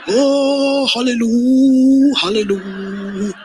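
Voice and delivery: joyful praise, then a laugh; mock hallelujah. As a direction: celebrate like it's already done. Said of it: "to support your vision".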